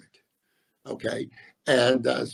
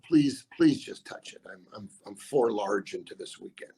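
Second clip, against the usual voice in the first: pleading gambler; 3 semitones lower than usual. Retold or imitated. Mocking desperate casino women.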